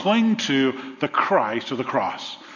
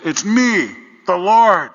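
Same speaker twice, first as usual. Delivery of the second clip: higher, much louder booming reply; voice from above; 4 semitones higher, 7 dB louder, slower than usual. Retold or imitated. The Lord answers the dangling man, loud booming reply. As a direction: play the Lord answering from the sky. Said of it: "he hears a voice".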